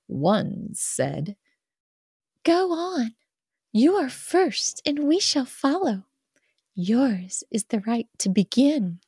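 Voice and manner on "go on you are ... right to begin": high, little doll voice; sing-song like a tiny toy doll; tiny pocket doll voice. Acted. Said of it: "it's the tiny pocket doll voice".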